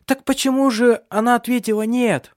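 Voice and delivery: high, loud call; shouting over noise. A narrator's reading. Mother shouting to her son over the child's screaming. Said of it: "она выкрикнула Таральду".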